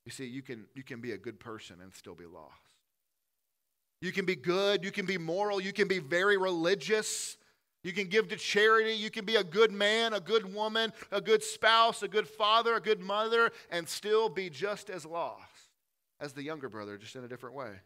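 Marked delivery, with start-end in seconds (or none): 4.0-15.7 loud, higher, pounding each item; forceful preaching. Real, not acted. Preacher listing good deeds to the congregation, loud and forceful. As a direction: hammer the list home.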